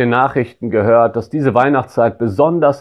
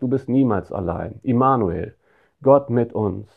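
soft reassurance; 4 dB quieter than usual. Acted. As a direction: lean in and comfort gently. Comforting the lonely listener.

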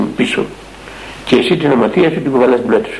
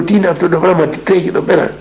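higher, alarmed asking; shaken cry; 5 semitones higher than usual. Retold or imitated. Elder, still shaken, asks in alarm what is happening. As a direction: voice of a man thrown off balance. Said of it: "Ε, ταράχτηκα".

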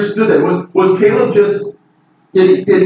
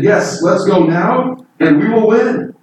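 eager confidence; 3 semitones higher than usual. Retold or imitated. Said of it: "And Caleb said".

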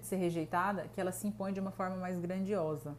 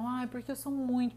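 whiny victim voice, higher; mock victim voice; 3 semitones higher than usual. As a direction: whine it like someone playing the victim. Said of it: "Ai, vitimista total". (imitando vitimista, em tom choroso e mais agudo)

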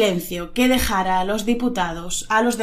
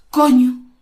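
astonished realisation; 7 dB louder than usual. Shown as a demonstration. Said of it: "no lo habías pensado".

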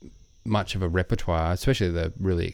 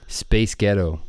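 American accent attempt; slower than usual. Shown as a demonstration. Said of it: "in an American accent".

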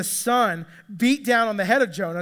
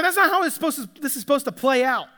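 mild mock indignation; 4 semitones higher, faster than usual. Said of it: "Jonah is ticked about it".

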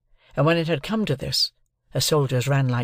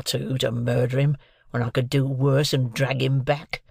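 lightly voiced gruff convict, scornful; rough convict. A narrator's reading. Convict scorning the other before the sergeant, gruff contempt. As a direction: growl it out with contempt.

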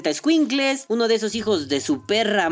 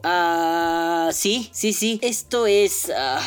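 mock-grave agreement; slower than usual. Sarcastically agreeing it is dangerous.

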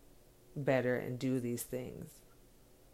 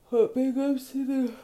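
excited shout-out; 10 semitones higher, 8 dB louder than usual. Real, not acted. Shouting out the dads.

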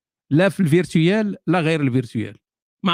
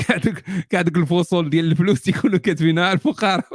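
laughing. Real, not acted. Laughing about money writers.

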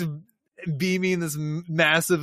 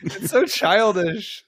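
high, slow sneering drawl; a sneering take on the vine; mock sneer; 7 semitones higher, 3 dB louder, slower than usual. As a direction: lightly play the snob. Mocking character's freak-out.

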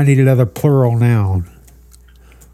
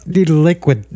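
laughing; 6 semitones higher than usual. Real, not acted. Cracking up mid-prompt.

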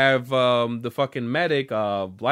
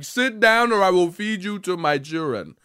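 lightly imitated warlord threat, African accent; 3 semitones higher than usual. Mocking Doomfist's stereotype, African warlord accent. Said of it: "African warlord stereotype going for him".

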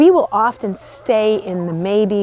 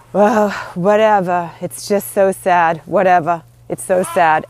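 imitating mother; 3 dB louder than usual. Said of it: "And that's how she would say it".

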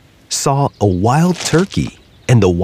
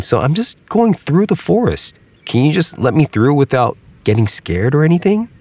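higher, insistent alligator; promising the squirrel he won't bite; Ignacio the alligator; 4 semitones higher than usual. Acted.

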